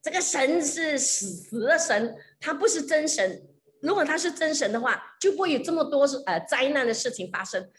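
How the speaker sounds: high, loud angry tirade; furious scolding. Retold or imitated. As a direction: tear into the old man with contempt. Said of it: "破口大骂这个老人家说". (破口大骂，高声怒斥)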